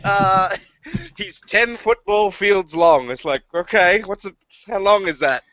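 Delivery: loud, high exasperated rant. Real, not acted. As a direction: throw up your hands, how long is that. Exasperated rant about feet.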